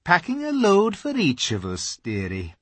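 calm beaver-wife voice; unbothered and motherly; cool Missus Beaver; coolly. A narrator's reading. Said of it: "very coolly".

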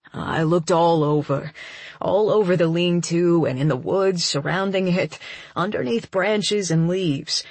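a hint of a man's voice, apologetic; lightly voiced Cassidy, remorseful. Man explaining his failed search to the injured narrator, lightly voiced remorse. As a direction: lightly play a man owning up to failing.

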